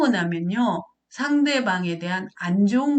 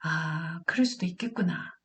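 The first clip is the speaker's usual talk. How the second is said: accepting realisation; 3 semitones lower, 6 dB quieter than usual. Acted. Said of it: "무시하지 말고".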